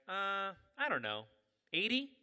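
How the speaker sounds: high, questioning guess; acted-out unashamed estimate; casual guess. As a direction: toss the number out as a question. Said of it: "Just casual".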